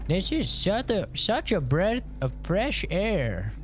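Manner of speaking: mom's voice. Retold or imitated. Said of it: "And she's like".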